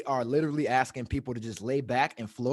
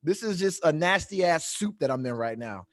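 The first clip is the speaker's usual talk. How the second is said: mock panic; 5 semitones higher than usual. Retelling his panic in the pool.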